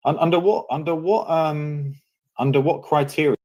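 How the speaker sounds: high-pitched, halting demand; indignant challenge. Real, not acted. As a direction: challenge them, voice shooting up, restarting. Challenges opponent, stammering indignantly.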